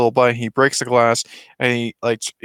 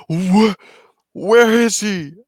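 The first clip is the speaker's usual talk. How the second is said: a bit higher and slower, alarmed; counselor's alarmed question; 9 semitones higher, 4 dB louder, slower than usual. Retold or imitated. Kid voicing the counselor, first try, mildly higher. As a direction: ask it as a worried official. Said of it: "like, a girl's voice".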